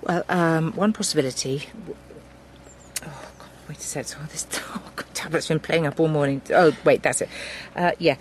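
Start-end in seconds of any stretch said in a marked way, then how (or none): 3.0-5.1 soft, quick muttering under his breath; half-laughing aside to himself. Acted. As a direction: grumble quietly at the tablet. Fumbling with a faulty tablet.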